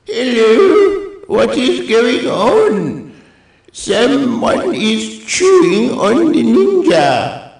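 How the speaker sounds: high, squeaky cartoon cat, puzzled. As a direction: squeak it out like a small confused cat. Voices the cat figure.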